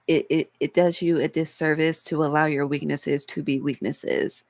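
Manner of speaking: cracking voice, fighting back tears. Real, not acted. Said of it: "If y'all hear my voice cracking, it's 'cause I'm trying not to cry".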